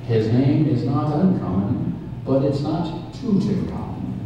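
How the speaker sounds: big boxing-match introduction; ring announcer. Acted. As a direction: hype up the villain to the crowd.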